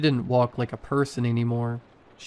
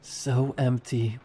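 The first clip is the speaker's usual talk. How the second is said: wet voice; slower than usual. A narrator's reading. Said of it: "Her voice was wet now".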